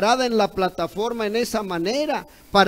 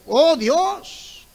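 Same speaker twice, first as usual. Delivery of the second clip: cry; 6 semitones higher, 4 dB louder than usual. Retold or imitated. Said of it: "ella gritó, dijo".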